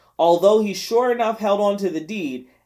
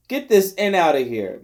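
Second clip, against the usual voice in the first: a mild, strained shout; weak shout. Acted. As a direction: shout with what's left of his voice. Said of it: "shouted as loudly as he could".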